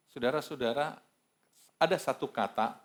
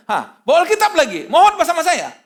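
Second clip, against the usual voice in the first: high, loud mock-furious shout; indignant yelling; retold angry outburst; 14 dB louder than usual. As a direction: explode at the pastor, imitating the young man. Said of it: "Dia marah lagi sama saya".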